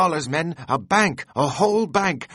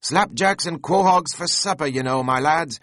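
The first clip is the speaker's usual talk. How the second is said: high, loud, giddy pleading to the rowers; Flask excitedly urging; 8 semitones higher, 3 dB louder than usual. A narrator's reading. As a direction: beg the crew to pull, hopping with glee.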